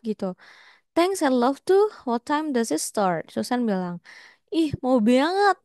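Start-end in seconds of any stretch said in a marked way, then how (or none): 0.9-3.2 voicing Susan. Teacher voices Susan in dialogue. 4.5-5.6 eager Susan. Acted. Susan's eager reply, retold.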